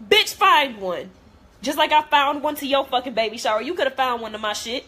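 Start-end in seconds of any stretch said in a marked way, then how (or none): 0.1-3.1 angry. Real, not acted. Angry retort at absent friend.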